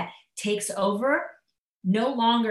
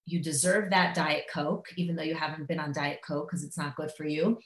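softer, coaxing self-talk; quiet tempting voice; 4 semitones lower, 6 dB quieter than usual. Retold or imitated. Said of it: "it's like".

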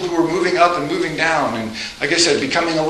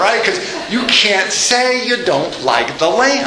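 usual speaking voice

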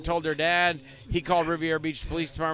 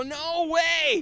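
high, loud mock outcry; emphatic refusal; 13 semitones higher, 3 dB louder than usual. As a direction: balk loudly, pitch shooting up. Retold refusal to hold snake.

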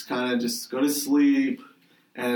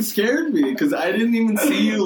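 normal talking voice

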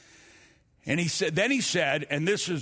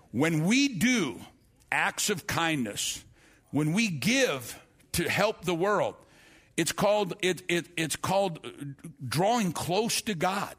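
slow, deliberate preaching cadence; slow sermon emphasis; slower than usual. Acted. Preacher teaching the congregation about kindness, slow and deliberate. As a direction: spell it out phrase by phrase for the flock.

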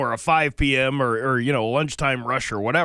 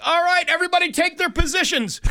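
high, loud bossy command; rally the staff like a drill sergeant; bossy manager; 4 dB louder than usual. Retold or imitated.

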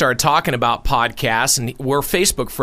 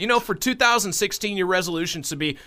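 mock scolding; 8 semitones higher than usual.

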